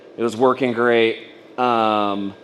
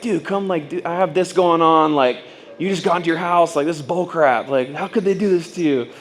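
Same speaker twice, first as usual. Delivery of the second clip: indignant rant; 5 semitones higher than usual. Retold or imitated. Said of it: "reacted, like, super aggressive".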